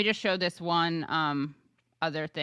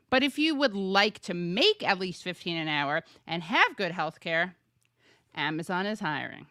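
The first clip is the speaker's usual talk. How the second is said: Regina George voice. Retold or imitated. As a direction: read it like the queen bee of school. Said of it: "you kinda read that in a Mean Girls voice".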